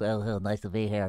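lightly voiced nerdy white guy; a hint of a stiff polite white guy. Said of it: "everybody did the white guy voice".

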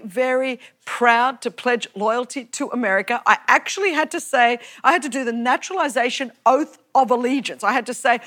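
ordinary talk

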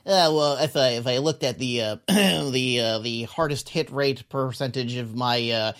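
slow, nasal-free stat-geek drone; nerd voice. Acted. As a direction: play an overeager numbers nerd. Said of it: "to do the nerd voice".

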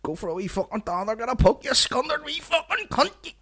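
very high, squeaky parody climbing upward; mock vlogger voice. Podcaster parodying the Korean dialect teacher, high mock voice. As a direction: send up the vlogger, pitch shooting high.

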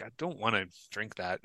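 muttered under the breath; quiet aside. Retold or imitated. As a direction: say it low to yourself. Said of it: "and I was like".

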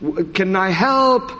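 put-on slow, careful German accent; hesitant German rookie on the radio. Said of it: "he taps the microphone and he's like".

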